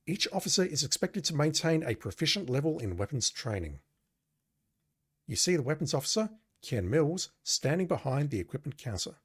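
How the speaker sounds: measured read of game text; game narration. Acted. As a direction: narrate it as an official briefing. Reads game text aloud.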